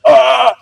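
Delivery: high imitated crowd gasp; audience gasp. Whole audience reacts as the wire pops out, mock gasp. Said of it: "the whole audience was like".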